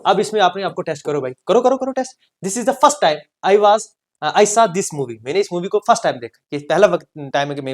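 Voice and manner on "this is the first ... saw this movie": slow dictation. Shown as a demonstration. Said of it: "teacher dictates example".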